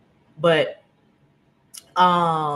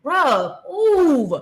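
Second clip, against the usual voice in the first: higher, louder move; fed-up command; 8 semitones higher, 5 dB louder than usual. Retold or imitated. Higher, louder order telling the tall guy to move. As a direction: brush him off with a sharp order. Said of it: "And I'm like".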